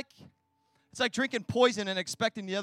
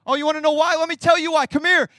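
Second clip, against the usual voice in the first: higher, louder call to come here; loud challenge; 4 semitones higher, 7 dB louder than usual. Real, not acted. Preacher daring the congregation to hear why, loud and high. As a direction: beckon them in boldly.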